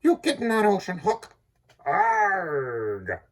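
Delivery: a hint of a jeering hero; lightly voiced jeer at Hook overboard; taunt. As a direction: taunt the beaten pirate.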